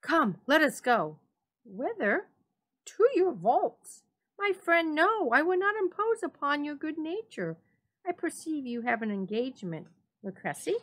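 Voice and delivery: high and loud back and forth; excited voices. A narrator's reading. The two friends heading for the vaults, high excited. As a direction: press on eagerly. Fortunato insists, Montresor protests.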